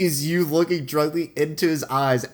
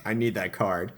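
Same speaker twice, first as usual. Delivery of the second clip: much softer, lower, a deadpan no; flat, quiet insistence; 5 semitones lower, 7 dB quieter, slower than usual. Retold or imitated. Co-host voicing the player to the headmaster, quiet deadpan. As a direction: mutter it low, refusing. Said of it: "It's like".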